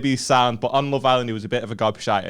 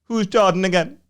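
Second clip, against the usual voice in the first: imitating the girl; 6 semitones higher than usual. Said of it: "And she goes".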